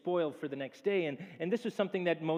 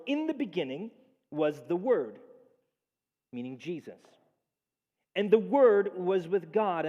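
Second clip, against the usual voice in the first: solemn scripture reading. Acted.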